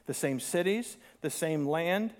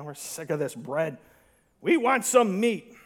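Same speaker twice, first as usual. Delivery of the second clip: whiny demand. Retold or imitated. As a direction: pout like a spoiled crowd. Acting out tired-of-manna crowd.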